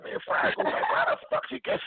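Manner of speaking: high, squeaky disbelief; high-pitched what-the-hell; shocked disbelief. Retold or imitated. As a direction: pitch it way up, bewildered. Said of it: "I'm like".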